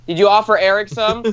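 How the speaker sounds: pointed parental check-up, lightly acted; questioning mom. Mom on Skype checks he shared, acted pointed question. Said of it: "and she's like".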